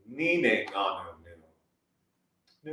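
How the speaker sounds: very slow, soft vowel line; slow drawn out. Shown as a demonstration. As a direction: stretch each vowel slowly. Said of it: "let my voice go up and down".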